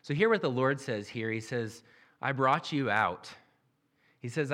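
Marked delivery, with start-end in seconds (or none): 2.2-3.3 slow and loud, leaning on brought; weighty, deliberate preaching; emphatic declaration. Acted. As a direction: proclaim it as God's own claim. Preacher voicing God's emphatic claim.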